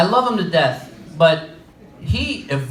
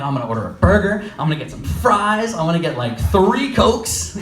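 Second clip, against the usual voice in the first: excited. Retold or imitated. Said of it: "I'm all excited".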